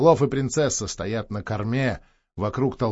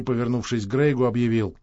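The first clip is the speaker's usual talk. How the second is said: usual speaking voice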